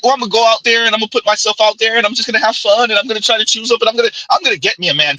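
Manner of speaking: fast and chirpy, mocking her old optimism; mimicking her upbeat voice. Mocking a woman's old dating plans, quick and chirpy. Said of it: "That's how she sounded".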